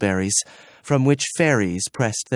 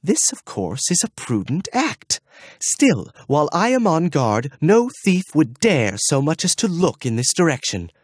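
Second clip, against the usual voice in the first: pompous guard voice; 5 semitones higher than usual. Acted. Gruffanet boasting on guard.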